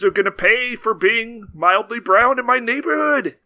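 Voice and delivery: Charles Bronson impression. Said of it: "something he'd say".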